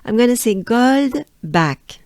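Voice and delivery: "gold back" with a heavy French lilt; Frenchified "gold back"; Frenchiest gold back. Shown as a demonstration. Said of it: "the Frenchiest way I can think of".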